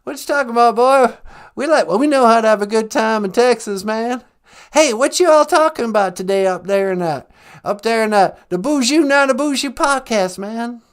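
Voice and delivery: folksy Texan Bush voice; lightly voiced Bush; George W. Bush impression. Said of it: "George W. Bush".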